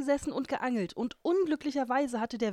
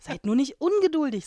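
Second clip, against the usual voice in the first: put-on calming girl; 5 semitones higher, 7 dB louder than usual. A narrator's reading. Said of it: "sagte Schneeweißchen".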